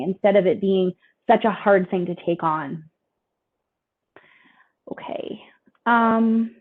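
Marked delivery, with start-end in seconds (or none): 4.9-6.6 whisper. Real, not acted. Aside before next section.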